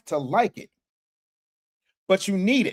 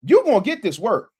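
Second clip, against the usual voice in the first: quoted battle-rap taunt, louder and higher; punchy, pitched-up catchphrase; a rapper; 4 semitones higher, 6 dB louder than usual. Retold or imitated. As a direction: throw it out like a battle rapper's threat. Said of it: "one of my favorite battle rappers"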